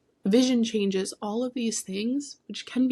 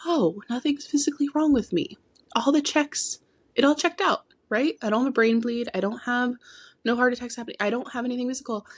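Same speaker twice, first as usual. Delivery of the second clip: higher, bright rush of relief; relieved excitement; 5 semitones higher than usual. Retold or imitated. Remembering leaving hospital, voicing her relieved excitement. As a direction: let the relief burst out higher.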